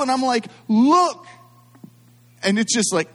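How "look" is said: loud, high mock-hysterical cry; panicked outburst. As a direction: thrust it out in hammed-up alarm. Injured child shows mom the cut.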